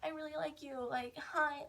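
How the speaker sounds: mock eager confession. Eighth grader telling a girl their feelings, mock eager confession. Acting out younger self's crush confession.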